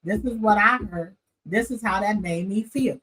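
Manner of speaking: demonstrating straightforward talk; plain-spoken example. Shown as a demonstration. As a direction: model a measured, direct statement. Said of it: "You don't talk like this, say".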